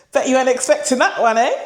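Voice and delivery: loud and fast through a laugh; giggly, sheepish aside. Real, not acted. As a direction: laugh the words out, a bit embarrassed. Laughing after emotional confession.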